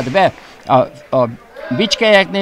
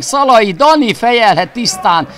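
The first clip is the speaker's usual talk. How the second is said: excited hungarian sports commentary; 3 semitones higher than usual. Real, not acted. Commentator calls corner and header.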